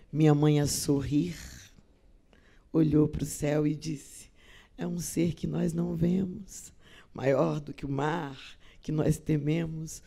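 soft, measured recitation of verse; unhurried and hushed, letting each line settle; tender, quiet poetry reading; poem recitation. Acted.

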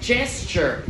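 "Gesture" opening on a soft ch-like G; soft G sound. Shown as a demonstration.

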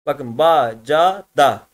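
ba, ca, da said one by one, each ending on its vowel; syllables spelt out. Shown as a demonstration. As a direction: show each open syllable slowly. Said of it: "Hepsi açık hece arkadaşlar". (heceleri tek tek, açık sesliyle bitirerek)

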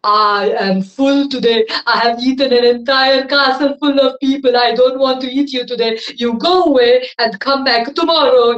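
loud, grumbling dragon voice; a full, lazy dragon shooing her off; grumpy dragon. Acted. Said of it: "he said".

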